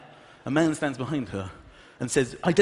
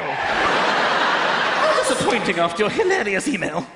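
mock disappointed Queen; 4 semitones higher, much slower than usual.

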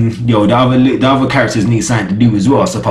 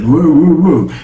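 slow, stretched-out whoa in their drawl; Highwaymen talk; 2 semitones higher, slower than usual. Retold or imitated. Reviewer mimics how the Highwaymen talk, slow drawn-out whoas. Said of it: "they talk like that".

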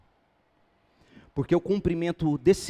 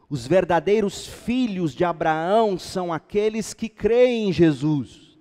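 louder, higher proclamation of scripture; emphatic preaching; 5 semitones higher, 7 dB louder than usual. Acted. Preacher reading Galatians to believers, emphatic preaching. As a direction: drive the verse home forcefully.

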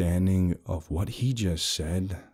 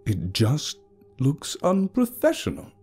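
scared apology; slower than usual. A narrator's reading. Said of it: "sudden change in his tone".

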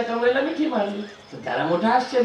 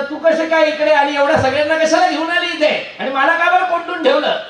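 indignant surprise; 6 semitones higher, 3 dB louder than usual. Acted. Husband locked in, confronts wife.

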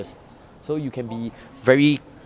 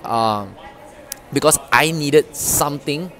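lively, animated intro; enthusiastic intro. Shown as a demonstration. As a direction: bring energy and conviction. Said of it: "my enthusiasm again".

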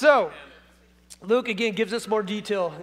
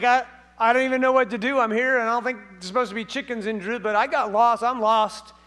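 fast, louder flustered rooster; panicked rooster; 5 dB louder than usual. Pretend. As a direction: rattle it off like a lost bird. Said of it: "he's like".

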